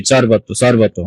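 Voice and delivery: সর্বত begun with a sharp s close to চ; dental s pronunciation. Shown as a demonstration. Teacher demonstrates the rule, সর্বত with a ch-like s. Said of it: "চ এর মতো উচ্চারণ করি".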